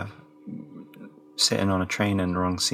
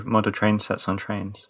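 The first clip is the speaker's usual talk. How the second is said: slow, deliberate repeat; slower than usual. Shown as a demonstration. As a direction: model train sets on trains said slowly. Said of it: "Were you saying about trains?".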